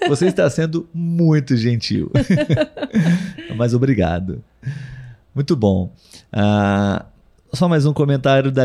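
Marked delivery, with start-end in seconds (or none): 2.1-3.5 rising laugh. Real, not acted. Keeps laughing, flattered.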